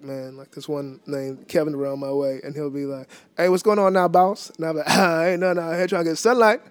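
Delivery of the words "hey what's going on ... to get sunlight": put-on old-neighbour mumble, words slurred together; mumbled greeting. Shown as a demonstration. Imitating a neighbour and himself trading porch small talk, mumbled. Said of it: "I can just mumble".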